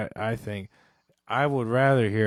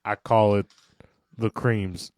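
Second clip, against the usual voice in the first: mock-seductive man voice; lowered, put-on macho tone; cream tone; 3 semitones lower, 4 dB louder than usual. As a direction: play the smug he-man. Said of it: "my voice hit that certain decibel".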